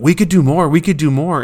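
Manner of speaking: lightly voiced dog pleading to keep playing; eager dog. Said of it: "with your dog going".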